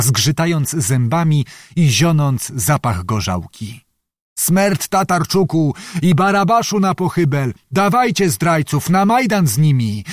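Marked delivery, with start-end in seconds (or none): 4.4-10.0 higher, raging mob cries; bay for their death like a drunken mob; drunken crowd yelling. Acted. Drunken crowd demanding the traitors, higher raging cries. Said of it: "krzyczały pijane głosy".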